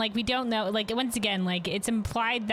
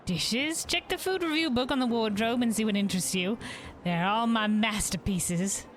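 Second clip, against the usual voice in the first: lightly voiced cheerful hostess, a bit higher; innkeeper voice; 3 semitones higher than usual. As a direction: greet the guest like a caring innkeeper. Innkeeper describing dishes.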